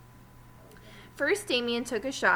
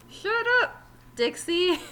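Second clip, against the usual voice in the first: rude snap; 8 semitones higher, 4 dB louder than usual. Acted. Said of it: "Terrence answered".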